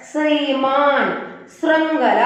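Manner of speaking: long ee in ശ്രീമാൻ, short vocalic r in ശൃംഖല; contrasted pronunciation. Shown as a demonstration. Teacher shows the difference, ശ്രീമാൻ and ശൃംഖല pronounced distinctly. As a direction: set ശ്രീമാൻ carefully against ശൃംഖല. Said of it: "രണ്ടും തമ്മിലുള്ള pronunciation difference ശ്രദ്ധിക്കുക".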